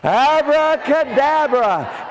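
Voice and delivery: slow, loud abracadabra; drawn-out magic word. Acted. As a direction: stretch the magic word out grandly.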